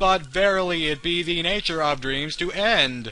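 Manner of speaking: shouty, high-pitched all-caps internet-commenter voice. Reading lines of a character who speaks in all caps: all-caps YouTube-commenter voice. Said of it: "He speaks in all caps, so I have to talk like a YouTube commenter".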